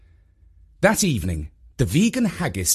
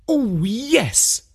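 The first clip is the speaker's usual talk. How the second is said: high, excited Oh yes; thrilled shout of joy; delighted cry; 11 semitones higher than usual. A narrator's reading. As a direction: mum spotting the bargain with glee. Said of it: "Mum cried out loud".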